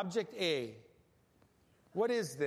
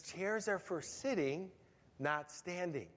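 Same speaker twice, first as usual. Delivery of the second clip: slow, firm fatherly warning, a bit softer; emphatic dad; 4 dB quieter, slower than usual. Retold or imitated. Dad telling his toddler to sit, firm and slow. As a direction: lay down the rule like a patient but firm dad. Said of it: "So Dad's more emphatic".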